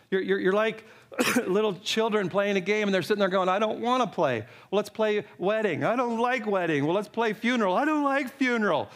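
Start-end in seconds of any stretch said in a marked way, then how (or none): 3.5-8.9 put-on sulky kid refusing to play; lightly voiced pouting child; whiny child. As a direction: whine like a bored child who won't play. Preacher voices sulky children playing.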